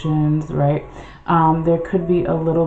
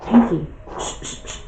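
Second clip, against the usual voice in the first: hushing the cat. Real, not acted. Hushing noisy cat mid-reading.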